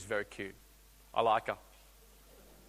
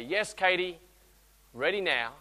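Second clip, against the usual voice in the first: reassuring; slower than usual. Retold or imitated. Father reassuring daughter.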